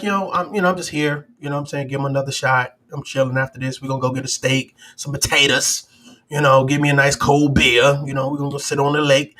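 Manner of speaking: low, laid-back acted quote; easygoing, just here to hang out; casual. Boxer strolling into the fight, casual. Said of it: "he kinda came in here casual".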